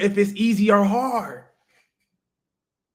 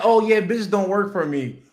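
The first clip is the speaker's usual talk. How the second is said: mock excuse; 2 semitones higher, 4 dB louder than usual. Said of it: "It's not that".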